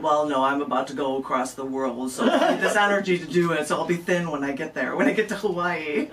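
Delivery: giggling through the bird's pretend answer; laughing mock reply. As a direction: laugh while playing the plump bird. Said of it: "You'd be like".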